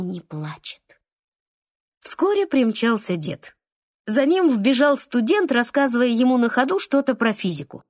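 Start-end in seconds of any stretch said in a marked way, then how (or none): none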